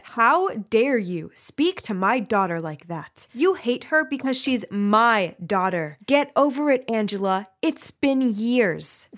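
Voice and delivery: slow, emphatic outrage; acted protective mother telling someone off; indignant confrontation. Mother defending her daughter to the teacher, indignant rebuke.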